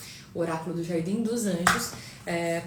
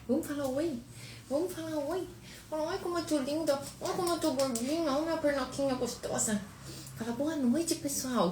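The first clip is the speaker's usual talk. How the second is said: put-on much higher, cute baby voice speaking as the daughter; voicing the baby; 8 semitones higher, 4 dB quieter than usual. Mother speaking as baby Sofia to the viewers, high cute voice.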